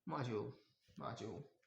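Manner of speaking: soft low "maajo"; American pronunciation. Shown as a demonstration. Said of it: "को हम क्या कहते हैं?". (धीमे स्वर में "माजो")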